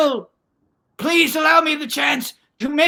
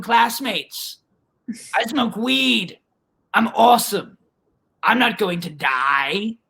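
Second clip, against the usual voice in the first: put-on cocky teenage disbelief; 2 semitones higher than usual. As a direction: brag it off, dismissively. Girl scoffs to herself in story.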